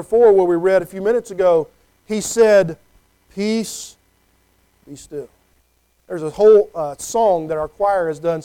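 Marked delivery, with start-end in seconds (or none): 3.3-5.3 quiet the storm gently; gentle hushed authority; calm command. Acted. Jesus calming the storm.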